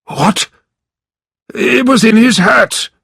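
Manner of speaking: high, loud, hammed-up shock; a lawyer pretending to be astonished; overplayed gasp of disbelief; fake surprise. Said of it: "cried Mister Brass, acting surprised".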